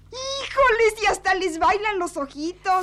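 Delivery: high, loud teasing cry; sing-song mockery of a blushing sister; mocking tease. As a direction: rub it in with glee. Teasing sister about her love note.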